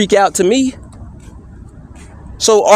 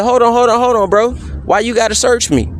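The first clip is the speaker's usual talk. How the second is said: mildly raised pitch, everyday question; conversational tone; 3 semitones higher, faster than usual. Retold or imitated. Man re-enacting his calm response to being searched, conversational. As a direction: protest casually without raising the volume. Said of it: "I said it in a conversational tone".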